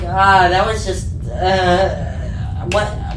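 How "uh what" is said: laughing. Real, not acted. Laughing about the crack.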